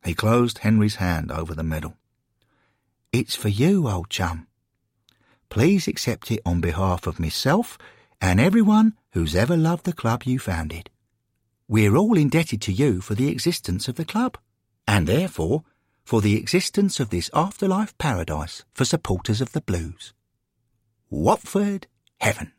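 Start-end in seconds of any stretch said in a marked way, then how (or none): 3.1-20.1 lightly voiced earnest friend; sincere speech, lifted in pitch; heartfelt tribute. Charlie warmly presents the medal. 21.1-22.5 Watford Heaven announced high and proud; triumphant, high-pitched naming; grand proclamation. Acted. Charlie climaxes his tribute speech.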